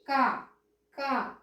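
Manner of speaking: క without a puff of breath; plain, unbreathed క; unaspirated ka. Shown as a demonstration. Teacher having pupils compare letters, unaspirated క. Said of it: "ఈ అక్షరాన్ని ఎలా పలుకుతున్నాము".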